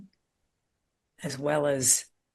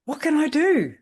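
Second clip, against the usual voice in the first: pleading client; 11 semitones higher, 8 dB louder than usual. Retold or imitated. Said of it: "And then they'd go".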